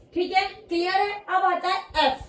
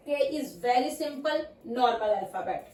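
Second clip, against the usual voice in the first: slow teaching; 5 semitones lower, 3 dB quieter, much slower than usual. Shown as a demonstration. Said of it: "teacher slow demo".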